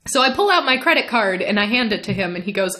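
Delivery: ordinary talk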